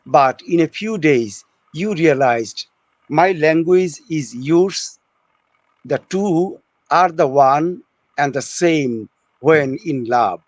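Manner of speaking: slow, measured poetry reading with pauses; poem recitation. Acted. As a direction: recite it line by line, unhurried.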